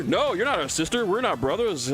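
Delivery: hammed-up, emphatic correction; insistent denial. Turtle correcting the would-be sister, mock insistent.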